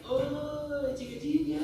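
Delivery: seruan tinggi dan agak keras; teriak. Retold or imitated. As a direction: panggil lagi setengah berteriak. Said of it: "Bapaknya teriak lagi". (teriakan tiruan yang ringan)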